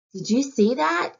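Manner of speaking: high, loud thrilled question; excited exclaim. Acted. Heron to the other herons, thrilled the snake is gone. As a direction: gasp it out to the flock.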